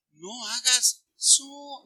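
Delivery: slow, drawn-out chiding; mild scolding parent. Acted. Mother to daughter who bites, slow chiding. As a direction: stretch out a mild reproof.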